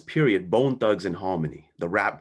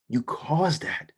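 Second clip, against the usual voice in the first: accusing whisper; 4 semitones higher, slower than usual. Retold or imitated. Mentor accusing the teen, intense.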